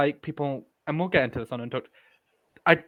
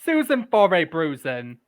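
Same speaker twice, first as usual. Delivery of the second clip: lightly voiced Southern accent; imitated Southern accent; 8 semitones higher, 12 dB louder than usual. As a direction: mimic a friend's Southern accent. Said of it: "in your accent".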